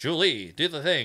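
loud nineteen-forties style voice. Comparing two roles by the same voice actor: 1940s-style Varric voice. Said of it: "it's that nineteen forties".

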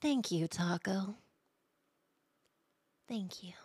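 acted motherly persona voice. Thanking a subscriber after being asked for a voice: Dami Mommy voice. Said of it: "Thank him with your Dami Mommy voice".

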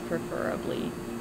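very quiet, soft speech.

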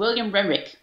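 quick, smooth, run-together delivery. Showing how his name sounds when said fast, name said fast. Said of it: "If I do it fast".

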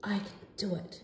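soft, hushed whisper. Little Blue Penguin, heading to the starting line of the race, whispered to herself. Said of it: "she whispered to herself".

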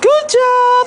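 soft, quiet, very high-pitched voice. Demonstrating a vocal tone, the speaker uses a soft, very high-pitched voice. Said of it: "พูดเบาๆอ่ะแต่เป็นโทนเสียงสูง ... เนี่ยแค่นี้ครับโทนเสียงสูงมาก".

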